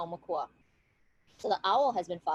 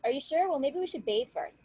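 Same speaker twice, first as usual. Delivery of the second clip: higher-pitched, lightly voiced hesitant suggestion; tentative; 6 semitones higher than usual. Woman stalling her angry betrothed, mildly tentative. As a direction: gently stall with a raised pitch.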